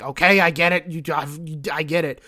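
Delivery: hammed-up impatient insistence; mock exasperation. Gilliman telling his brother to follow the book, mock-exasperated. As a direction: burst out as if fed up, then insist.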